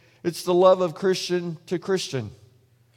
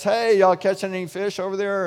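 higher-pitched calling out; mild mock yell; 4 semitones higher than usual. Jesus calls to fishermen from shore, mild mock yell. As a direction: imitate a holler across water, held back. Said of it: "he yells out to the guys".

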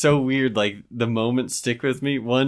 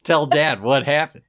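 put-on higher, protesting child voice; a touch of a defensive child; indignant kid; 4 semitones higher than usual. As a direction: insist on innocence like a wronged kid.

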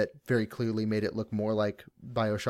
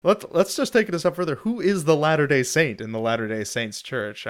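mock conspiratorial; 4 semitones higher, 4 dB louder than usual. Joking conspiratorial escalation.

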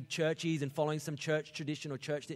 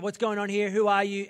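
loud, higher startled questions; Peter confused; 5 semitones higher, 9 dB louder than usual. Retold or imitated. Peter baffled by Cornelius's household, loud startled questions. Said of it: "He's like".

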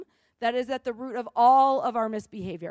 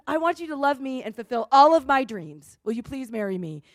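mock proposal; 6 dB louder than usual. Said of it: "proposes to you and says".

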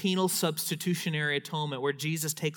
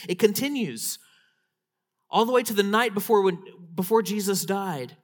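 loud, higher, impassioned preaching; full-force preaching; 4 semitones higher, 5 dB louder than usual. Acted. Preacher telling the congregation who God is, impassioned and loud. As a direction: proclaim God's welcome with fire.

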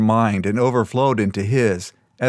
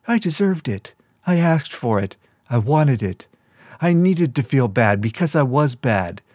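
put-on a broken young woman tearing herself down; self-loathing girl; 2 semitones higher than usual. Crystal's self-loathing inner voice.

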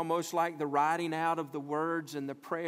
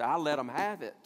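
worked-up retort; 4 dB louder than usual. Acted. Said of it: "You hit your hand on the dashboard".

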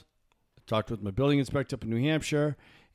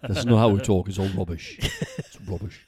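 annoyed Englishman; 3 semitones lower than usual. Retold or imitated. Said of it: "I try to imitate him".

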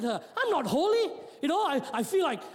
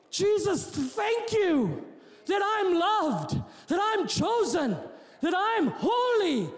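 insistent, raised-pitch preacher's delivery; fervent preaching; 5 semitones higher than usual. Real, not acted. Preacher rejecting works and thanking Jesus, fervent. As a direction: drive it home, then stretch the thanks.

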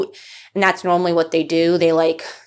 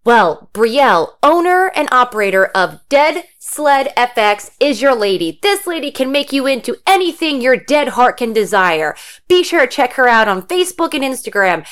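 louder, upbeat ad announcer; sponsor ad read; 4 semitones higher, 4 dB louder than usual. Acted. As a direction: sell it like a radio spot.

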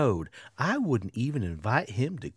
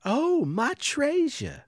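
princess voice; 8 semitones higher than usual. Acted. Princess voiced in told story.

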